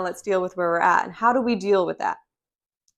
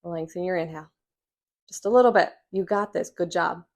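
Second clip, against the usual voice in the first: gentle coaching. Retold or imitated. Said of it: "And I said".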